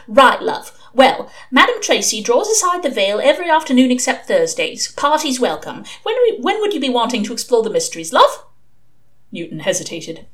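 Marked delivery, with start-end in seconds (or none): 0.1-8.4 lightly voiced madam, lilting upward at the end; brisk, friendly sales patter with "love"; chatty madam on the phone. Madam pitching her services to a caller, lightly voiced patter.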